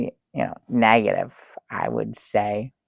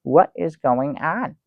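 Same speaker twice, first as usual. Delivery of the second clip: mock alarm; 4 semitones higher than usual. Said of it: "I was like".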